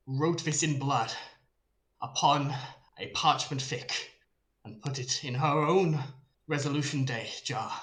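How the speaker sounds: lightly voiced herald, measured proclamation; solemn herald. Herald telling the throng of an oath of vengeance, measured solemnity. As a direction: proclaim an oath in short, weighted phrases. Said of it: "towards this herald".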